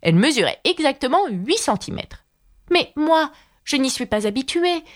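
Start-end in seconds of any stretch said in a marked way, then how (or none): 2.7-4.8 pitiful. Acted. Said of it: "dit Alice d'une voix pitoyable".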